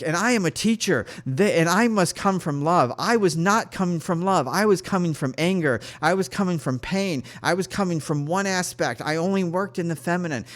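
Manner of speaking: high, insistent half-scream; mild mock yell, pouring it out; retold screaming. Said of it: "I was just screaming".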